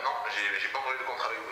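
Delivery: normal talking voice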